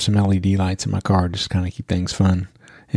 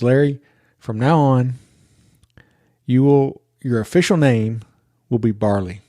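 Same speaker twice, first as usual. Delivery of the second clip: Mira; 3 semitones higher than usual. Retold or imitated. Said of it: "I hear Mira in the back seat".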